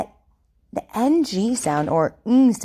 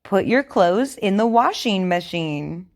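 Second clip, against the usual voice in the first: over enunciating. Shown as a demonstration. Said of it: "Repeat after me".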